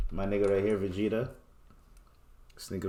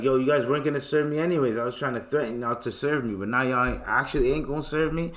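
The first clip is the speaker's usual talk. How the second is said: mock outrage; 3 semitones higher, faster than usual. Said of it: "It's like".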